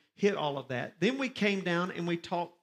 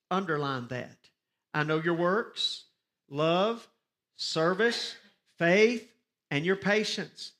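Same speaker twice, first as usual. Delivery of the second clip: louder, slow, weighty reading of the verses; scripture reading; 3 dB louder than usual. Acted. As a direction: proclaim each word from the pulpit. Reads scripture aloud to congregation.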